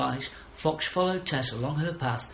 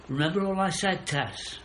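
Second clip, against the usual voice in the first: screeching owl; 7 semitones higher, 3 dB louder than usual. Acted. Owl still urging Tess.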